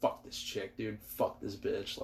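soft, breathy whispered swearing; whispered cursing. Retold or imitated. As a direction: hiss it to yourself lying in bed. Retelling cursing alone in bed.

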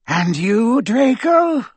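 high, slow, silky villain; cold dark lord. Acted. Voldemort questions Draco.

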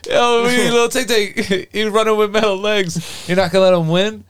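Cat Williams. Retold or imitated. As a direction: pitch it way up for a comedian's bit, laughing between lines. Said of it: "he did that bit about".

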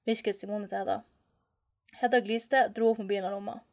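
measured, even read-aloud voice; story narration. A narrator's reading.

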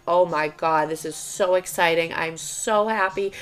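retold excitement. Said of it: "texting her just being like".

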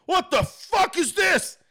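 high, drawn-out mock outrage; aggressive, disbelieving mock yell; angry reaction. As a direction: imitate her indignant shock, slow and high. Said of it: "angry 'cause she was like".

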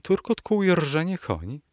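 high-pitched, mildly alarmed question; frightened exclamation. A narrator's reading. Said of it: "zawołała młoda dama przerażona". (przestraszony, wysoki okrzyk damy)

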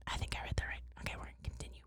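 barely voiced mutter to yourself; hushed aside. Real, not acted. Reader checking their place to themselves, hushed aside. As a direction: drop to a near-whisper, very soft.

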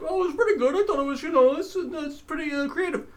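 high, hesitant nerd voice; nerdy fan voice. Retold or imitated. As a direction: play an unsure fan. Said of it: "those same nerds will be like".

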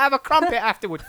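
put-on high, loud caricature Cockney accent; hammed-up Cockney. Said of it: "Cockney on today".

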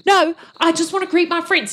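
guard voice. Acted. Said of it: "And he's like".

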